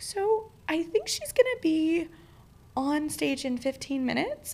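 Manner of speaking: breathy, slow, high whisper of bad news; nervous whisper. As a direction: whisper it like you dread saying it. Nervously breaking bad news to friends.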